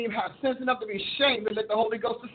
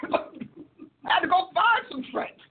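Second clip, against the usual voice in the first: laughing; 7 semitones higher, much slower than usual. Real, not acted. Laughing punchline.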